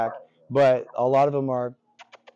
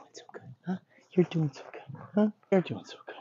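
higher-pitched sweet praise; lightly voiced princess coo to a dog; 5 semitones higher, 4 dB quieter, faster than usual. Real, not acted. Trainer praising a dog, light princess voice. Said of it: "these extra princess voices that I'm doing".

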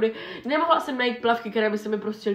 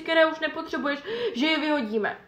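higher, breezy mother explaining; mom's excuse; 5 semitones higher than usual. Retold or imitated. Daughter imitating mom's breezy excuse, higher. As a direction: lightly play the innocent mom.

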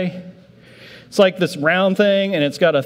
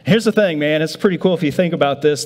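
usual speaking voice

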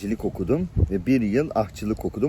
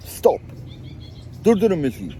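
star stopping the show; 5 semitones higher than usual. Retold or imitated. A singer halts the concert.

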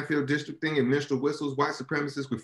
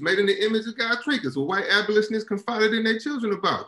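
impassioned climax; 6 semitones higher than usual. Acted. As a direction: build into a fervent, soaring recital. Poem climax, voice raised throughout.

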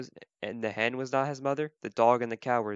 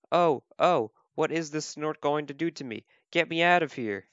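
higher, mildly panicked storybook voice; acted storybook distress; alarmed baby bird; 4 semitones higher than usual. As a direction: plead to get away as a little bird. Baby bird lifted away in alarm.

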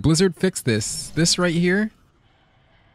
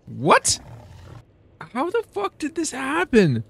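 incredulous complaint; 9 semitones higher than usual. Real, not acted. Complains at Blizzard about map glitch.

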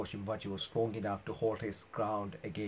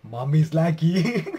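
delighted; 6 semitones higher, 14 dB louder, slower than usual. Real, not acted. Delighted reaction.

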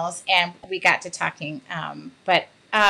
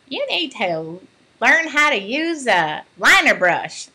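put-on a light Oklahoma accent, motherly and teasing; Darla's Oklahoma accent; 4 semitones higher than usual. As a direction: lightly put on Oklahoma twang, like a fond mentor. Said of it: "I need to do it in Darla's accent".

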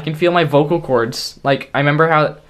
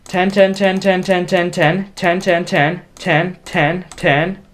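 excited; 5 semitones higher than usual. Real, not acted. Hitting the ten-thousand goal.

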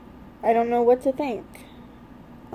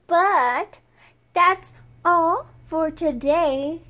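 loud, slow gushing over kittens; 5 semitones higher, 7 dB louder, slower than usual. Real, not acted. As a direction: gush with delight at the litter.

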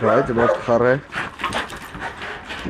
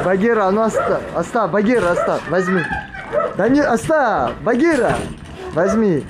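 firm, raised voice calling the dog; raised commanding voice; 5 semitones higher than usual. Real, not acted. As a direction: call her off firmly.

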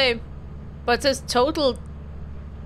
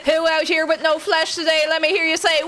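hype man. Pretend. Hype-man crowd call.

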